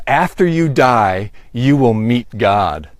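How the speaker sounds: slow, solemn reading of the billboard; slow, ominous quote of the sign; grave sign reading. Retold or imitated. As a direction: read it like a stern warning sign. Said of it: "billboard sign ... that says".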